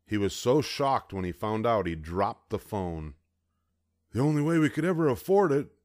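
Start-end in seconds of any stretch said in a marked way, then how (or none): 4.1-5.7 high, fast, playful dad; dad joking to mom about the price. A narrator's reading. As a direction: joke to his wife. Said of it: "he joked to Mom".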